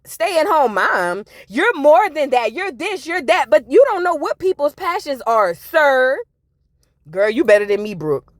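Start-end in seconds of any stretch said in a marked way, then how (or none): 0.0-6.2 mocking the husband. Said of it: "looking at her like".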